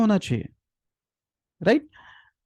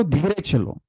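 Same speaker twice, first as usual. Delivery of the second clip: softer, calm request; soft and gentle; 2 semitones lower, 5 dB quieter, slower than usual. Shown as a demonstration. A parent calmly asking a child in the market to walk slowly. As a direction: ease the child into walking slowly. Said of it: "आपका tone एक level तक अच्छा, slow".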